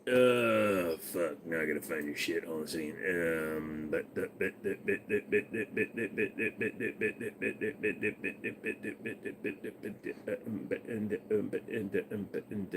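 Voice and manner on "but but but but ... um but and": muttering to himself. Real, not acted. Muttering while searching, fading.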